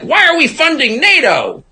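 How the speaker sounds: a light, hammed-up Trump voice; florid Trump impression. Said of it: "in his, like, florid orange way".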